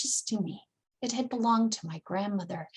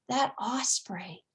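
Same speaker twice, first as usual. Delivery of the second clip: plain reading voice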